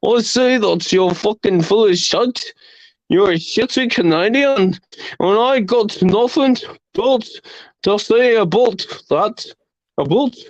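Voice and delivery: mock Canadian accent with rounded "aboot"; hammed-up fake Canadian; bad Canadian accent. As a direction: botch a Canadian accent, badly faked. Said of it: "I can't do the Canadian accent".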